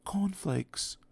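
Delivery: whispering as hard as he can; loudest whisper. Acted. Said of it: "tried his loudest whisper".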